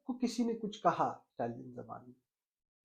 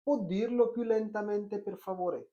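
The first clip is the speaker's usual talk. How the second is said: slow model phrase; much slower than usual. Shown as a demonstration. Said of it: "आप कहें".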